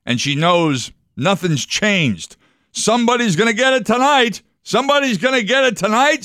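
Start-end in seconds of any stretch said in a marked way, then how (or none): 2.7-6.2 much higher screeching parrot voice. Retold or imitated. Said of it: "she hears the parrot screech".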